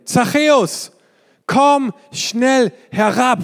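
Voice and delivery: high, slow call up to the tree. A narrator's reading. Jesus calling Zachäus down from the tree, lightly voiced call. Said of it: "rief Jesus".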